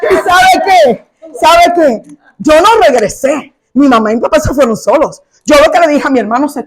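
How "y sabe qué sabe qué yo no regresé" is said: proud exclaim. Real, not acted. Proud triumphant declaration.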